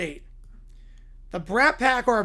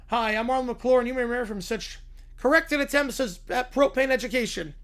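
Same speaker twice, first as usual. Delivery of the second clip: Troy McClure; 3 semitones higher than usual. Retold or imitated. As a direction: play the cheesy TV host, slowed right down. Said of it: "Troy McClure".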